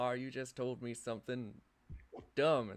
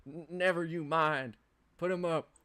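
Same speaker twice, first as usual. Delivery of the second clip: louder, stammering threat; nervous menacing voice; 5 semitones higher, 7 dB louder than usual. Acted. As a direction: bark the order, voice wobbling. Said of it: "a menacing yet quivering voice".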